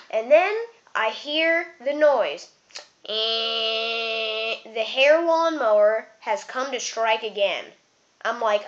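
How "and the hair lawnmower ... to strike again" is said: dramatic announcement. Acted. Buzz noise, then dramatic announcement.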